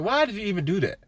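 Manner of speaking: high-pitched imitation of a scolding parent; parent's questioning. Parent voiced before a whooping.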